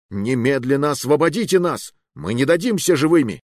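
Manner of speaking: rally against the jailers; defiant yell; defiant shout. Acted.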